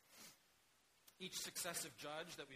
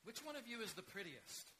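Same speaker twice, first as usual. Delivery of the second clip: put-on old man calling out, pitched higher; 8 semitones higher, 4 dB louder than usual. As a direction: call across the field to the cats. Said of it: "And he called to the cats".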